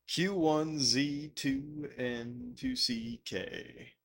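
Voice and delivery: line dancing caller. Pretend. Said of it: "sounds like line dancing".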